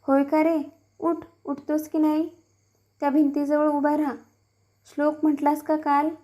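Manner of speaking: understated stern rebuke to a lying son; angry father. Acted. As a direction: read the father's scolding with light anger. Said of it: "रागाने म्हटले".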